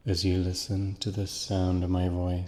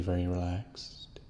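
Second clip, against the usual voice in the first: whispered; 6 dB quieter than usual. Acted. Soothing hypnosis, word drops to breath.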